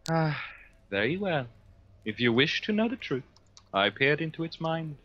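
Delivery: lightly voiced, measured psyker; psyker character. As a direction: play a formal psyker answering an interrogator. Plays the psyker answering the interrogator.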